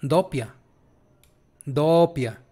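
Doppia with a held double p; Italian pronunciation demo. Shown as a demonstration. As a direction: model Doppia slowly and separately. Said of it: "Porque tiene doble, mira".

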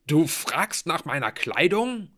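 high, loud, slow outrage; indignant, disbelieving question; incredulous. Acted. Blitz indignant, arm broken.

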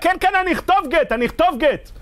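high-pitched pleading outcry, no real volume; mock desperate yell. Beaten man on the floor giving in to the court, mock yelling. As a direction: act out crying out in surrender. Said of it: "הבן אדם מהרצפה צועק".

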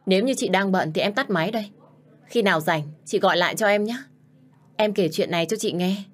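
put-on girl raising her voice a little into the phone to her sister. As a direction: speak up a little, a touch resigned. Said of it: "thở dài một hơi và lên giọng nói".

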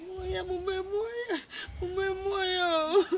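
slow, crying lament; sobbing. Acted. Heartbroken girl wailing to her mother, crying. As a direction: drag the words out through tears.

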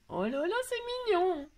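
high, drawn-out squeal of delight; real gushing coo. Real, not acted. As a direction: melt over something adorable, high and slow. Delighted by the handmade gift.

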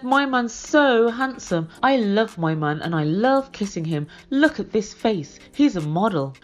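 lightly imitated show-off gushing; showy boasting. Stacey flaunting Florian at Darcy, showy boasting. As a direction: gush over him for an audience. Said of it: "being really showy".

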